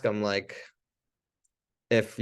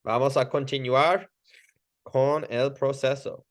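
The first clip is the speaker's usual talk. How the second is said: calm instruction; 3 semitones higher than usual. Shown as a demonstration. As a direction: tell them you'll continue. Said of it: "I would go".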